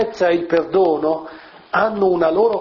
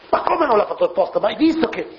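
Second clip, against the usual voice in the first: higher, fast, incredulous protest; indignant objection; 6 semitones higher, faster than usual. Pretend. An indignant friend protesting the excuse, incredulous and fast. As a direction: scoff that it was obviously on purpose.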